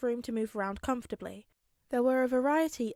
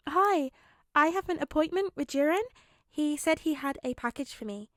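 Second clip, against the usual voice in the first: put-on lightly higher, sugary polite young man; sweet young hero; 5 semitones higher, 3 dB louder than usual. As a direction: charm her with overdone politeness. Izuku sweetly greets receptionist.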